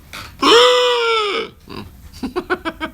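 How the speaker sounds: comic monster howl for the viewer who asked; King Kong roar. Acted. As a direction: let rip a giant ape scream. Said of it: "Can you do King Kong?".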